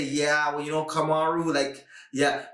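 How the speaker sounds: lightly put-on French accent; hesitant imitation with a French accent. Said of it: "was that a French accent you did".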